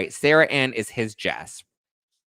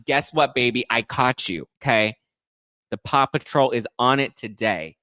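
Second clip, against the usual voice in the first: sassy gotcha; 3 semitones higher, 5 dB louder than usual. Retold or imitated. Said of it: "she's like".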